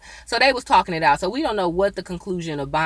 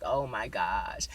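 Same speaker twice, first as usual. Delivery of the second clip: hushed shock; 9 semitones lower, 11 dB quieter, slower than usual. Retold or imitated. Seeing the burned body.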